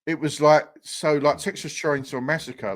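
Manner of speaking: usual speaking voice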